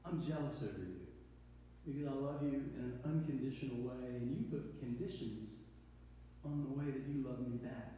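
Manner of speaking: a jealous lover speaking quietly; quiet God voice. Acted. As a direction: confide the hurt softly. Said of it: "And he goes".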